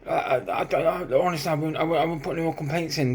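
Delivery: lightly acted timid appeasing; mock scared pleading. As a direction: stumble over promises to back down. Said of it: "looking like a proper pussy".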